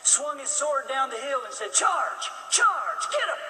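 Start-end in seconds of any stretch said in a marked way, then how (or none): 1.7-3.4 higher, louder rallying shout; battle cry. Retold or imitated. Chamberlain leading the charge down the hill, rallying shout. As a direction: call the men over the wall.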